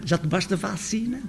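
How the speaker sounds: Já tomaste a vacina with vacina said as bacina; northern vacina. Shown as a demonstration. Lecturer voicing a northern speaker's question. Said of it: "se fala em Vacina".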